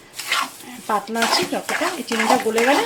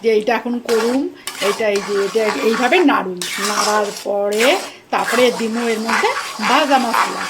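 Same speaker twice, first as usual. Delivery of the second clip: Bangal dialect. Shown as a demonstration. Showing viewers how she loves to talk, in Bangal dialect. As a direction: slip into relaxed Bangal speech. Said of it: "এইভাবে কথা কইতে আমি খুব ভালোবাসি".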